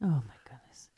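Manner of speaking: soft, breathless whisper of shock; hushed aside. Real, not acted. Host reacting to the suicide story, whispered shock. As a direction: let it out under your breath, stunned.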